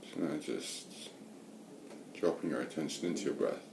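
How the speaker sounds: unhurried meditation guidance with long pauses; guided meditation. Real, not acted. Meditation teacher settling listeners into watching the breath, guided meditation. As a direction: guide listeners gently, leaving space between phrases.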